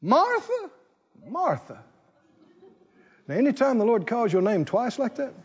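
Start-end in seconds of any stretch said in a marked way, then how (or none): 0.0-0.7 Jesus calling. Acted. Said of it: "And he said". 1.3-1.8 Jesus, soft second call. Acted. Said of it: "And he said".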